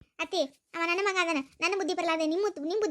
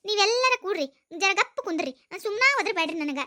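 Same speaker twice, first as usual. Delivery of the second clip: louder fed-up retort; exasperated shout; 5 dB louder than usual. Acted. Daughter-in-law to mother-in-law, loud exasperated retort. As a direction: shut her up, loud and fed up.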